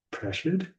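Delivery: Pressured lifted into a high questioning rise; curious confused tone, Pressured sliding up; rising curious tone. Shown as a demonstration. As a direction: ask it back, puzzled, rising on Pressured.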